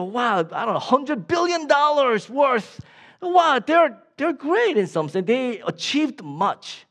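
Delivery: high, amazed admiration; awestruck onlooker. Acted. Preacher voicing someone reading the rich list, awestruck. Onlookers awed by billionaires' wealth.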